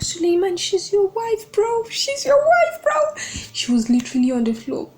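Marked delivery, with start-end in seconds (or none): 0.0-3.2 pleading with a character, more desperate each time; rising, incredulous outburst at the book character; exasperated plea. Retold or imitated. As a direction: pitch climbing higher with each repeat. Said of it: "I was like".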